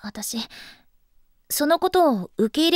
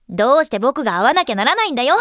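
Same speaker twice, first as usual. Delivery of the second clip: put-on loud, grumbling boy's protest; imitating Junichi; 2 semitones lower, 6 dB louder, faster than usual. Girl guessing her boyfriend's reaction, mock grumbling. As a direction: mimic a reluctant boy complaining. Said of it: "なんて言うだろうな".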